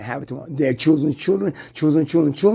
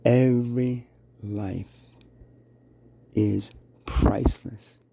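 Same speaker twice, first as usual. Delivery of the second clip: lightly voiced deity, slow and grave; godlike voice; 4 semitones lower, 3 dB quieter, slower than usual. Shown as a demonstration. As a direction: intone it like God speaking. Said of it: "See how that rings? Godlike, right?".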